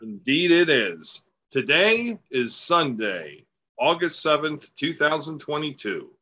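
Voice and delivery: radio-style show opening. Real, not acted. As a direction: announce the show in an easy radio voice. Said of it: "I seem to have my radio voice on today".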